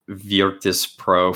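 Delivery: VIRTUS PRO said slowly, imitating a guest's odd pronunciation; imitated odd pronunciation. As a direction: say "Virtus Pro" drawn out, like "Vyor-tis Pro". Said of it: "I have to say it like that".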